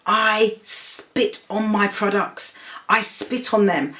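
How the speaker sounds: imitating her outburst. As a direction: act out the shopkeeper spitting her contempt, drawn out. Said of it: "she was like".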